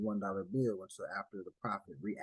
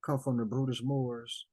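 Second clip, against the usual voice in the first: imitating a believer listing his roots; mock Moorish claimant; 3 semitones higher, 6 dB louder than usual. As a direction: play someone proudly tracing roots. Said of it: "and they're saying".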